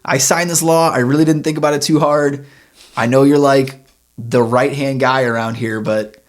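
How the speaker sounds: a hint of a king saying sorry to his right-hand man; apologetic king. King sheepishly apologizing to Daniel, lightly voiced.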